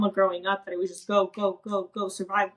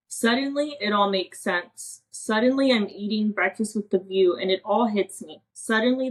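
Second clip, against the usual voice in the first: poem recital. Real, not acted. Reading her emotional little poem to the host, measured poem recital. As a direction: read your own poem aloud, each refrain pitched up.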